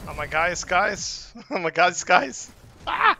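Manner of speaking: rising panic into screams; panicked screaming. Real, not acted. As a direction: yelp as you get killed. Dying in game, panics.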